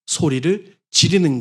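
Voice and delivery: loud, slow, high straining cry; slow forceful preacher's cry; all-out cry. Shown as a demonstration. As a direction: throw everything into the shout. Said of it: "악을 쓴다고 말하죠".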